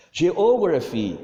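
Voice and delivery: drawn-out Geography for the class to repeat; slow model word. Shown as a demonstration. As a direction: say Geography slowly and clearly for pupils. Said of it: "Tem um T mudo aí".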